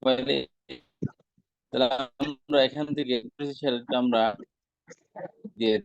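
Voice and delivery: breaking up over a bad connection; choppy, cutting-out online audio; buffering stutter. Real, not acted. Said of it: "clear আসতেছে না". (কেটে কেটে যাওয়া ভাঙা আওয়াজ)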